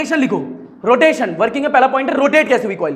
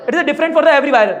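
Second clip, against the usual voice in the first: slow dictation; slower than usual. Shown as a demonstration. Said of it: "बे यार feel नहीं आया".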